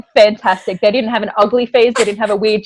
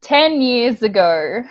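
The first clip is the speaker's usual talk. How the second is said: slow; much slower than usual. Real, not acted. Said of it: "Not even kidding".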